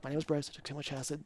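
very soft, low recitation; retold grounding recital. Tripper coming back to himself, quiet. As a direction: say it low and hushed like a reminder. Repeats self-reassurance each return.

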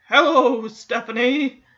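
talking horse's drawn-out hello. Retold or imitated. Horse greets Stephanie at the stable, drawn-out talking-horse voice. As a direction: greet her as a talking horse, stretching the name. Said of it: "And he's like".

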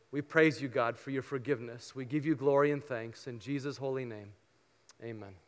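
earnest, measured pastoral prayer. Acted. Pastor prays for the congregation before communion, earnest and reverent.

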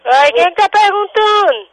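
high, loud, fed-up retort; real exasperation. Real, not acted. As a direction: cut back at a nuisance caller. Exasperated by evasive caller.

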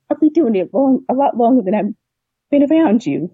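retold firm retort. Firefighter retelling her comeback to her doubting boyfriend, defensive. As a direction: stand your ground in a retold argument, pitch lifted.

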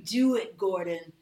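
eerie urging ghost voice; creepy ghost voice. Acted. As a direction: coax him like a haunting spirit. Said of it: "you hear a creepy voice".

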